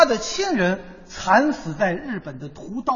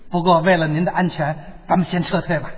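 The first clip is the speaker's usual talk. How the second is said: lightly acted collaborator, dropping lower; fawning collaborator; 6 semitones lower than usual. Collaborator urging the officer to retreat, lightly fawning and lowered. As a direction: back down in a lower, lightly obsequious voice. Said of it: "把这个汉奸嘴脸刻画得入木三分".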